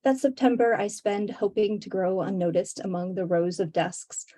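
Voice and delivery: measured, deliberate poem reading; poetry reading. Acted. Poet reads to book-launch audience, measured poetry reading. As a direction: read it line by line, pausing between images.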